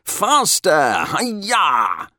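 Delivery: high, loud rider's whoop; exuberant yell. A narrator's reading. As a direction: drive the horse on with a ringing cry. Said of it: "Bertie yelled as his horse".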